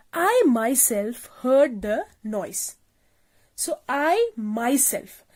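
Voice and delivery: "I myself" spoken slowly, each word set apart; slow down and lean on "I myself"; stress on I myself. Shown as a demonstration. Teacher demonstrating emphasis to the class, slow and deliberate. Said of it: "myself, the emphasizing pronoun, is stressing on the pronoun".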